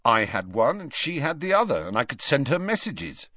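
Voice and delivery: tense defiant schoolboy; lightly voiced nervous Draco; a hint of shaky bravado; young Malfoy.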